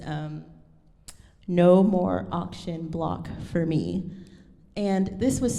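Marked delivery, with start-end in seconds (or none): 1.5-4.1 measured text reading. Shown as a demonstration. Reads the spiritual's text aloud.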